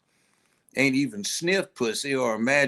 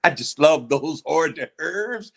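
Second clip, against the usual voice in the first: savoring predator voice. Acted. Dinosaur savoring kid.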